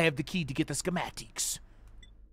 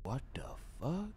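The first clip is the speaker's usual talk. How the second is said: 1 whispered shock; 3 semitones lower, 12 dB quieter than usual. Real, not acted. Startled horror game reaction.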